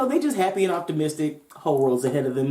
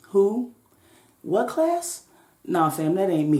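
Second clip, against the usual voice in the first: put-on confused young woman; 4 semitones higher, slower than usual. Confused girl voiced in story.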